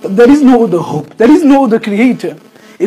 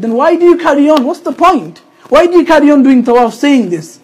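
higher-pitched insistent questioning; pressing question; 5 semitones higher, 3 dB louder than usual. Retold or imitated. Asking the rejected pilgrim why continue, insistent. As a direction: push the question, pitch raised.

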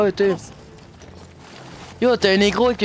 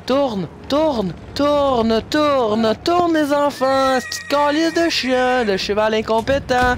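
higher, impatient scolding of a horse; 4 semitones higher than usual. Real, not acted. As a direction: bark orders at a stubborn horse. Scolding his game horse.

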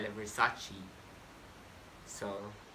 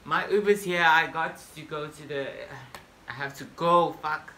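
hurried fluster; 4 semitones higher, 10 dB louder than usual. Acted. Rushing to leave.

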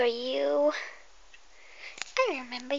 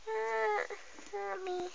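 mock cry for help; 7 semitones higher, 11 dB quieter, slower than usual. Calling for help in play.

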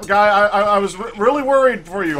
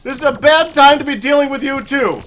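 raised, exasperated complaint at the boss; frustrated yell; 4 semitones higher, 4 dB louder than usual. Real, not acted. Gamer venting at the destroyer arriving. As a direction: vent at the bad timing, higher and louder.

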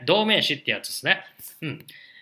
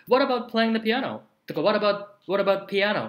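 higher, curious question to a friend who plays many instruments; curious friend asking; 6 semitones higher than usual. Pretend. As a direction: ask as if surprised he might play piano too. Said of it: "acting a friend asking".

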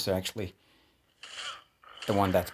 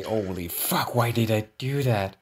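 mock outburst; 5 dB louder than usual. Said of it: "just say".

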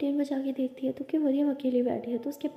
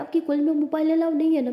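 mildly angry, higher and louder; angry scolding; 5 semitones higher, 5 dB louder than usual. A narrator's reading. Anokhi scolds her about the phone at college, mildly angry. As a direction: scold with a touch of anger. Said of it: "अनोखी बहुत गुस्सा करती है".

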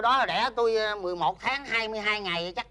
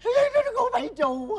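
shout; 12 semitones higher, 5 dB louder than usual. Acted. Husband blurts out the betrayal.

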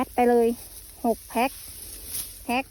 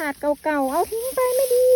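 higher, slow mock dismissal; imitated dismissive grower; 5 semitones higher, 4 dB louder, slower than usual. Imitating growers who would toss torn plastic, mock dismissive. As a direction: voice someone writing off old plastic, pitched up and drawn out. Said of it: "บางคนเขาคิดแบบนั้น".

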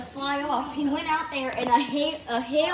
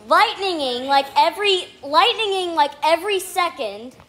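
raised excited voice over pounding hail; in a hailstorm; 2 semitones higher, 5 dB louder than usual. Real, not acted. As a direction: talk loud over the storm outside. Excited vlog during loud hailstorm.

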